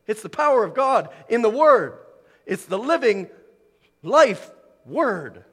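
emphatic, rising preacher's proclamation; impassioned preaching. Real, not acted. Preacher proclaiming the power of God's word, impassioned preaching. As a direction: punch out each phrase with building fervour.

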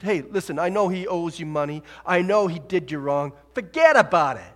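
loud, hammed-up Brooklyn wiseguy; Brooklyn accent. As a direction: brush it off like a Brooklyn guy, loudly. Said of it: "He wasn't from Brooklyn".

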